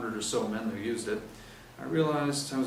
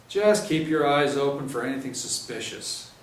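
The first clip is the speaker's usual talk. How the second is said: louder, higher, brisk orders; stern sergeant briefing; 4 semitones higher, 7 dB louder than usual. Acted. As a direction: lay out the patrols firmly.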